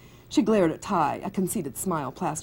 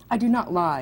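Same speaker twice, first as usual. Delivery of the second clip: haughty; 3 semitones higher, 4 dB louder than usual. Acted. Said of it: "Ophelia said in a haughty manner".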